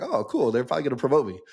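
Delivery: expecting good news, retold; lightly mocking his own oblivious cheer; naive excitement. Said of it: "So I'm going in like".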